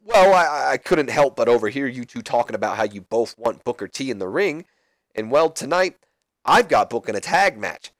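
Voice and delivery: lightly voiced hopeful wrestler; Kurt Angle. Kurt pitches a tag team.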